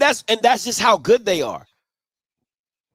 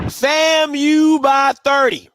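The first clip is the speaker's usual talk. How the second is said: slow emphatic shout; slower than usual. Real, not acted. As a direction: hammer "famu by thirty" home. Repeats the line, second time shouted.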